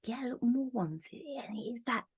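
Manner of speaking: hushed whisper over the cards. Real, not acted. Reader revealing the Ace of Wands, whispered. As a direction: lean in and whisper it.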